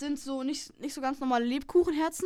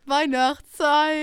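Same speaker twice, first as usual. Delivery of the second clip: stretched jingle; 7 dB louder, much slower than usual. Shown as a demonstration. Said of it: "aber so gestreckt".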